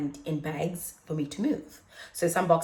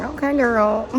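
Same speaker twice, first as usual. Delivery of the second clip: excited squeal; 6 semitones higher, 9 dB louder, slower than usual. Retold or imitated. Reacting to a massage.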